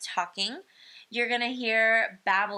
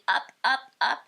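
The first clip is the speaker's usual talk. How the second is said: put-on high, louder toddler plea; toddler asking up; 5 semitones higher, 4 dB louder than usual. Shown as a demonstration. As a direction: ask to be picked up like a little one. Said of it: "it might be".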